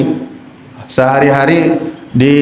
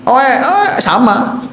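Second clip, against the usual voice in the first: baby cry imitation; 7 semitones higher, slower than usual. Shown as a demonstration. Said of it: "itu sama suaranya".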